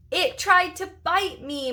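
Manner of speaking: high, whiny protest; upset exclamation. Acted. Marty complaining about the hamster, high indignant. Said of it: "Marty exclaimed".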